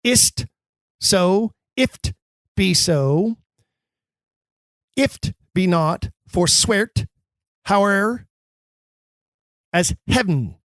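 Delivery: elided, pressing delivery; elided words. Shown as a demonstration. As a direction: clip "Is't", "if't", "forswear't", "howe'er" short and quick. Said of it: "heavy elision there".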